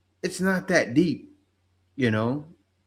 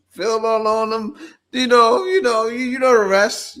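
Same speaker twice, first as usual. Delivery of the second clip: higher and louder, pressing the point; excited insistence; 7 semitones higher, 6 dB louder than usual. Real, not acted. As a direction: hammer it home, fired up. Worked up about men overseas.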